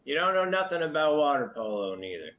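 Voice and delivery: high, loud brash cook; gruff cook voice. Acted. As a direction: bark like a rough camp cook.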